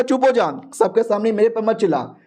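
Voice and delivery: high-pitched, heated command to shut up; angry retort. Acted. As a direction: snap back, stung in public. Elders quarrel in front of all.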